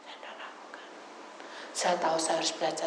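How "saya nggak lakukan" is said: unvoiced, hushed aside; whisper. Real, not acted. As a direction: whisper it to yourself. Berbisik pada diri sendiri.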